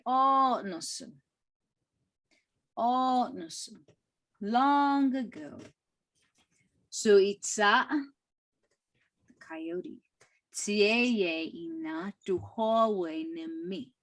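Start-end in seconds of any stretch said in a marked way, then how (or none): 0.1-5.6 storyteller intro. Retold or imitated. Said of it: "you'll hear Ralph say". 10.5-13.9 slow, careful reading; read slowly. Shown as a demonstration. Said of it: "Kinda read it a little slow".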